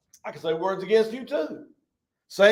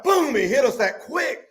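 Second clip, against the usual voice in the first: shout; 5 semitones higher than usual. Retold or imitated. Retelling the shock of the news.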